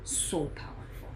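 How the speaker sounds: low soft whisper; awed hush. Real, not acted. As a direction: let it out as a reverent whisper. Awed verdict on the book.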